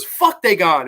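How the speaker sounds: loud retold outburst; hammed-up defiant shout; mock angry defiance. Acts man's angry defiance.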